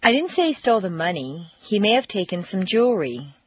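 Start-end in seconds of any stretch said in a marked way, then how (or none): 0.0-1.5 "money" lifted and stretched at the end; stress on MONEY. Shown as a demonstration. Teacher demo implying something else was stolen, stress on "money". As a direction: make "money" the word that matters. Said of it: "indicate that you think he stole something besides money".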